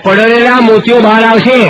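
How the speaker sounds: mock-grave comic punchline. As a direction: land the joke with a drawn-out push. Punchline about old men.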